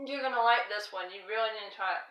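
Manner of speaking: talking with a mouth full of food; chewing while talking, mouth full. Real, not acted. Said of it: "I'm being rude, talking with my mouth full".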